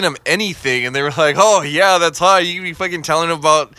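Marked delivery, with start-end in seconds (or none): 1.4-2.5 breathy-sounding fake turn-on, pitched up and louder; mock sultry reply. Mocking a partner pretending to be turned on, pitched up. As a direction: ham up a fake "oh yeah, that's hot".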